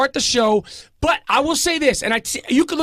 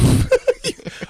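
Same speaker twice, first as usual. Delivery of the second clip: choking laugh; 13 semitones higher than usual. Real, not acted. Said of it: "every single time you start to choke".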